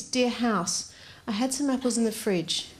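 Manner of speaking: lightly mocking note-reading voice; mock the housemate's note as you read it; how the note sounds to the reader. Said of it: "it sounds more like this".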